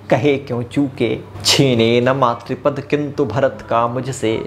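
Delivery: slow, measured verse recital; poem recitation. Acted.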